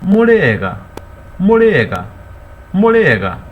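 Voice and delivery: "Murega" called out high and loud, three times; a visitor greeting everyone in the house. Shown as a demonstration. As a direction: hail the whole group with "Murega". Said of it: "the visitor will ask all of you".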